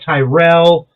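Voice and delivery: "Tyrell" as tie-RELL, stressed at the end; name mispronounced. Shown as a demonstration. Man lists wrong versions of his name, mispronounced. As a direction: open "Tyrell" with a long "tie". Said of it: "They say Terrell".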